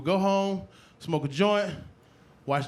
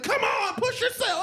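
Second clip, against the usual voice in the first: much higher, hammed-up coach urging; trainer voice; slower than usual. TV trainer urging a contestant, hammed-up high coaching. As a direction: egg him on like a TV trainer. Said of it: "Julianne Martin was like".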